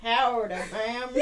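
light Western drawl; a hint of a cowboy greeting; cowboy accent. Shown as a demonstration. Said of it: "if I write a Western".

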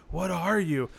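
high, loud hammed-up leprechaun voice; mock an over-the-top leprechaun proudly declaring himself. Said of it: "like, even everything he said".

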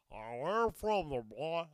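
loud, throaty put-on questioner; phlegmed-up mock challenge. Shown as a demonstration. Comedian demonstrating how strangers ask it, phlegmed-up mock challenge. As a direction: hack the question out through phlegm. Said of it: "phlegm it up".

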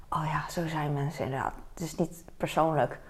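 soft hushed inner voice; whispered realization. Retold or imitated. Vlogger whispering her own comforting thought.

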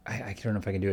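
gruff, flat, low voice; a hint of a gruff monotone expert. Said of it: "It's, like, really gruff, and it's really flat, and it's really low".

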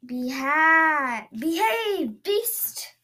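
high, loud stern command; shouting command. Acted. Princess commanding the monster, shouting. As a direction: order the beast to behave. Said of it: "she shouted".

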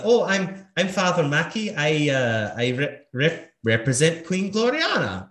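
high, stammering nervous priest; flustered priest. Acted. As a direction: stumble over the words like a nervous priest. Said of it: "And he's like".

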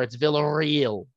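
slow Villarreal with an exaggerated, over-rolled R; rolled r exercise. Shown as a demonstration. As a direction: drag out the rolled R in Villarreal, slowly and hammily. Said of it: "you gotta do a butchering of a rolled R".

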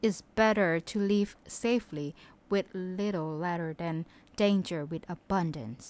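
slow, measured English reading; moral reading. A narrator's reading. Giving learners the moral of the fable, slow reading. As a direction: read out the moral phrase by phrase, unhurried.

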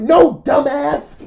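slow, loud, high-pitched retold scolding; exasperated correction. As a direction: stretch it out as a mock exasperated put-down. Acts out friend's exasperated correction.

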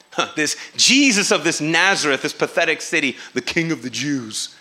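low, scornful jeer at Jesus of Nazareth; mocking sneer. Pilate mocking the crowned Jesus, low scornful sneer. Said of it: "It was a mocking statement".

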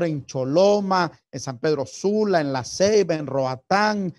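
loud, preaching prayer over the listeners; fervent prayer. Acted. Pastor praying for the young viewers, fervent and loud. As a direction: call on the Father with full force. Prays aloud for the youth.

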